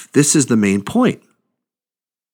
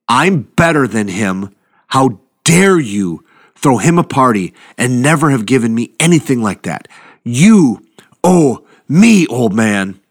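put-on resentful older son; 2 semitones higher, 3 dB louder than usual. Older brother voiced, resentful.

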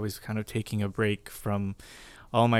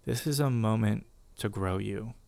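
soft, calm, reassuring quote; gentle voice of God; 4 dB quieter than usual. Retold or imitated. God's voice answering her in the car, soft and gentle. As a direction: speak it gently like a quiet inner voice. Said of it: "his voice just so gently".

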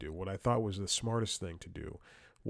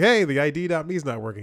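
higher, louder retelling of his own complaint; mock frustrated call; 6 semitones higher, 9 dB louder, faster than usual. Caller complaining to a sleepy support guy, louder and higher. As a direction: push it up like you're fed up with the line.

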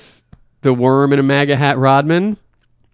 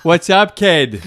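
put-on Boston accent, a bit higher and laughing; 3 semitones higher, much slower than usual. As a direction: greet him like a Boston fan. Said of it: "with a Boston accent".

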